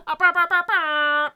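loud excited singsong whoop; excited shout. Real, not acted. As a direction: belt it out in celebration. Excited celebration of 200 episodes.

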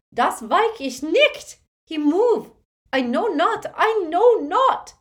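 high, loud panicked begging; terrified pleading. Acted. Woman begging the dark wizard, screaming in terror. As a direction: beg for her life.

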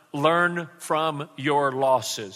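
slow, every word weighed; slow emphatic. Shown as a demonstration. Pastor giving the congregation a line to repeat, slow and emphatic. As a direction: spell it out slowly for the congregation to repeat. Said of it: "Say that with me".

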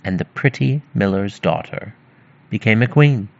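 measured fairy-tale reading, clearly projected; story narration. A narrator's reading. Narrator telling of the miller's daughter, storytelling voice. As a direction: read it out like a storyteller.

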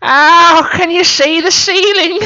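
very high, loud gushing; hammed-up exclamation. Art critic trying a new reaction, high hammed-up exclamation. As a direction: swoop up into theatrical wonder. Another replayed reaction in improv.

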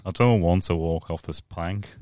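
slow, put-on reluctant voice; complaining husband. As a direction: refuse as the henpecked husband. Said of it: "He's like".

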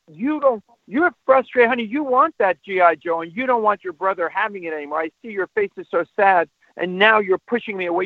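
put-on mildly emotional sympathy for an upset child; earnestly mirror the child's frustration, starting high. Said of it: "make it a little bit less extreme".

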